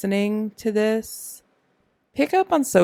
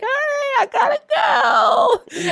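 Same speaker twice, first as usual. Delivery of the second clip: hurried exit. Retold or imitated. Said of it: "I'm like".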